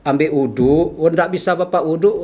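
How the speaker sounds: retold exhortation with mild impatience; a bit annoyed. Patient urging a sick man to pray, mildly impatient. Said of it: "Saya agak kesel".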